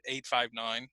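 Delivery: eight, five, nine grouped as one chunk; group eight five nine as a phone number; phone number rhythm. Shown as a demonstration. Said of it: "We don't say eight hundred fifty-nine".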